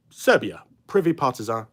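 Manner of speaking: brand name with a French accent; lightly put-on French pronunciation. Real, not acted. Presenter naming the ammunition maker, in a French accent. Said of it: "say that in a French accent".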